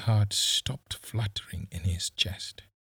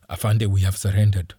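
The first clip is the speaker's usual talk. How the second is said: trembling voice; 8 dB louder, faster than usual. Acted. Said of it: "Briar's trembling voice said".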